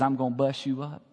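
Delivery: soft, sly devil's threat; a hint of the devil hissing in your ear; lightly voiced menacing devil; devil whispering threats. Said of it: "the devil comes whispering at you and threatening".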